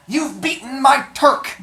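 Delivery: high, loud, slow sneering dwarf; hunchback dwarf voice. Acted. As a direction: play the scheming little hunchback. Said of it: "my little hunchback dwarf voice".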